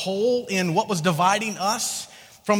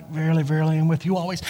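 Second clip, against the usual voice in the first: King James Jesus; 7 semitones lower, faster than usual. Acted. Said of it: "I got King James Jesus".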